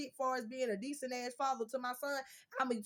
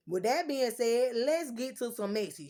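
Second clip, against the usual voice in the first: louder restart; 6 dB louder than usual. Real, not acted.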